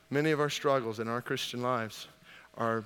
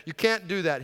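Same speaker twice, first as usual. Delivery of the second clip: retold protest; 6 semitones higher, 8 dB louder than usual. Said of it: "he protested".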